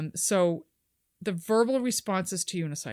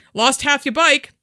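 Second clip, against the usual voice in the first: mocking bloke; 5 semitones higher, 7 dB louder than usual.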